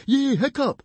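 very high, loud cheer. A narrator's reading. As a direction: cheer your friend on shrilly. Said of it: "cheered Fishlegs".

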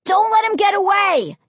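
loud, high urgent shout; high-pitched panicked shout; yelling. A narrator's reading. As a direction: yell it in alarm. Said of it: "Josh yelled".

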